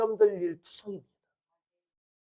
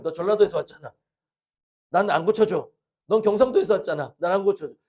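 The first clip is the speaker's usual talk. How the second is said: blunt Gyeongsang local; 5 dB louder than usual. Retold or imitated. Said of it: "경상도 사람 옛날식으로 하면".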